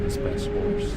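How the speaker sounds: high, slow ghost voice; slow, high spectral Jim; ghostly voice. A narrator's reading. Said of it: "Father asked me to get you".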